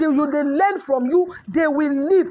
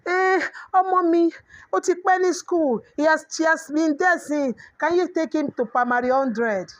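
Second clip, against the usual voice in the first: pleading parent; 4 semitones higher than usual. Retold or imitated. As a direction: play a parent begging a favour, pitched up. Imitating a parent asking a favour.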